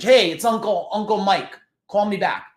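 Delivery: lightly voiced hearty caller; imitated caller's message. Uncle leaving a phone message, lightly imitated hearty caller.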